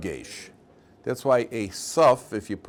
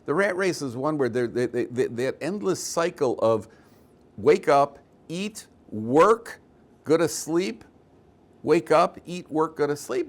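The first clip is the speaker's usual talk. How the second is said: much higher, pressing preacher's voice; urgent sage's plea; 6 semitones higher than usual. Retold or imitated. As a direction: shake them out of the rat race, rising with each phrase. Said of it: "The Vilna Gaon is saying over here".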